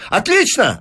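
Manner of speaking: high, crisp exclamation; delighted. Acted. Businessman hearing the professor agree, delighted. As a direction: greet the yes triumphantly. Fines hears consent.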